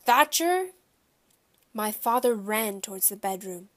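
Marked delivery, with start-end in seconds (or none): 0.0-0.7 loud, high, booming holler; big-voiced angry man's call; booming shout. A narrator's reading. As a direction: boom it out across the house. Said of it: "his voice boomed".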